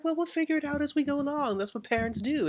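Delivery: high, soft-edged wife imitation; Wanda. Wanda answering her husband's parenting doubts, high imitation. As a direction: lift the voice high, imitating a TV mother. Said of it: "And then she's like".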